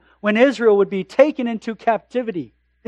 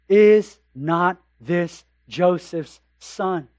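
skeptical townsfolk; 4 semitones lower, much slower than usual. Acted. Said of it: "I know where he was born".

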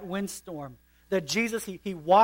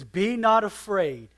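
slow, reassuring command; slowly calm the frightened disciple; Jesus comforting John; 3 semitones higher, 5 dB louder, slower than usual. Acted. Quoting Jesus.

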